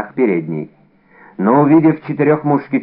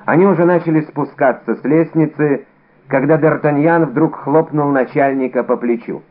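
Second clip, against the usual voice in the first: plain reading voice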